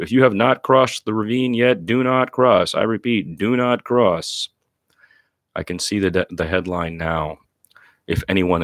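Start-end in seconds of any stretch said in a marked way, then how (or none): 0.0-4.5 commanding call. Retold or imitated. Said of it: "Curtis cries out".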